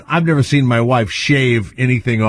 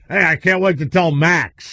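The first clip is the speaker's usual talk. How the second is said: lightly voiced big rough trucker, slightly higher; rough trucker guy; 4 semitones higher than usual. Big rough guys in their trucks, mock tough-guy voice. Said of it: "Big rough guys in their trucks go".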